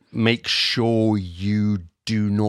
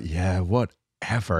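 put-on slow, bored Valley Girl drawl; 90s Valley Girl shrugging it off; slower than usual. Shown as a demonstration. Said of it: "my nineteen nineties Valley Girl impression".

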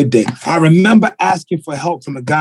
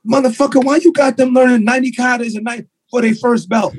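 self-scolding; 6 semitones higher than usual. Retold or imitated. Imagined self-confrontation.

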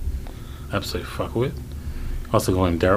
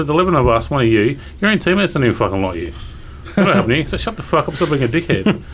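raised, mock-exasperated rebuke; retold telling-off; 5 semitones higher than usual. Cricketer retelling how he told off an opponent, indignant. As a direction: reenact putting a bully in his place.

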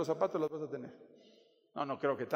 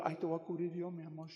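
soft mock-tender murmur, fading away; mock coddling; 7 dB quieter than usual. Wife offering to cover her husband, mock tender and soft. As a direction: coo it softly as a parody of protectiveness.

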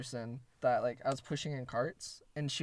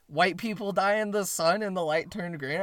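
louder, higher mock yell; retold yell; 5 semitones higher, 5 dB louder than usual. Street man shouting nonsense at traffic, mock yell. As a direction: imitate a ranting stranger yelling. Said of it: "fucking dude just yells".

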